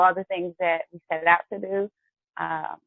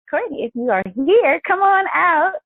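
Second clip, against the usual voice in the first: raised, higher voice summoning someone; calling out; 8 semitones higher, 6 dB louder than usual. Real, not acted. Host bringing guest on the show, calling out. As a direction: call them out onto the stage, stretching the last words.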